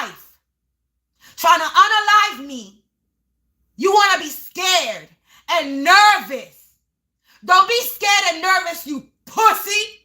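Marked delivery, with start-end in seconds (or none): 1.4-10.0 louder, higher, scolding; getting loud. Real, not acted. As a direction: call them out, rising. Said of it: "I get loud sometimes".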